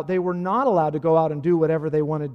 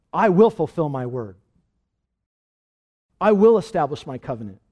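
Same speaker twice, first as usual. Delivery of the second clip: louder, solemn proclamation; firm voice of the Lord; 6 dB louder than usual. Acted. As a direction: declare it as God's promise. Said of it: "The Lord says".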